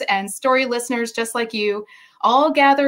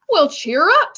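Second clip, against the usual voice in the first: cheery giant; 5 semitones higher, 4 dB louder than usual. Acted. George cheers the giraffe.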